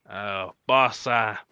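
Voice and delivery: put-on a misfired accent on Uh, boss; wrong accent. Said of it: "nope, that's the wrong accent".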